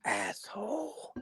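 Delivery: high, soft, drawn-out insult; mock grumbling. Cohost imitating his chilly friend's reply, mock grumbling. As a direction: squeeze it out slowly, small and high. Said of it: "And then you're like".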